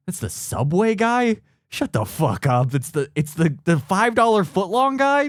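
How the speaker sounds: hammed-up disbelief rising high on guy; mock surprise. Investigator discovering Subway guy, mock stunned disbelief. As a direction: act out a stunned detective realizing. Detective realizing the culprit.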